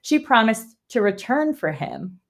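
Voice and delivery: measured, even read-aloud delivery; story summary narration. A narrator's reading. Host recapping a fantasy chapter for listeners, measured narration.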